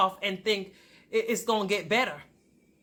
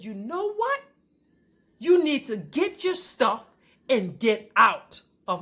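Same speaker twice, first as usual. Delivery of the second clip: retold angry ultimatum; 2 semitones higher, 3 dB louder than usual. Wife ordering husband out, retold anger. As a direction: lay down the law, word by word. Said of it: "I screamed louder than that".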